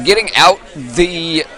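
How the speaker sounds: strained, breaking, slow words; voice cracking. Real, not acted. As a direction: voice giving out mid-call. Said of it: "oh, losing my voice".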